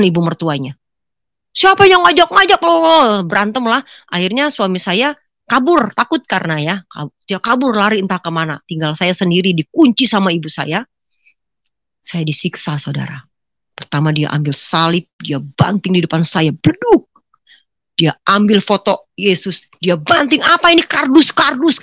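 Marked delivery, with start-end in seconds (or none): 1.5-3.2 high, loud acted outburst; angry yell. Husband defying his mother-in-law, angry yell. 16.5-17.1 high, sudden thud noise; imitated crash. Crucifix slammed before her, imitated crash. 20.4-21.8 high-pitched acted outburst; angry scorn. Mother throwing down the picture of Jesus, angry scorn.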